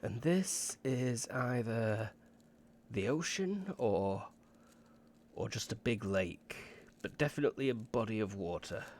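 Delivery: lightly voiced expert thinking aloud; pondering scholar. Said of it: "And she says".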